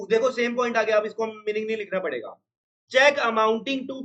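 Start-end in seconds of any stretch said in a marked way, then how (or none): 2.9-4.0 each word drawn out for writing; slow dictation. Shown as a demonstration. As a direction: dictate it slowly to the class. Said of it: "मैं बड़ा करता हूँ थोड़ा सा". (छात्रों को धीरे-धीरे लिखवाना)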